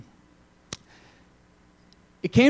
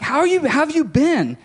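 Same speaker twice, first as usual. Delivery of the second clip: cheery greeting; 12 semitones higher than usual. Retold or imitated. Friend greets him in car.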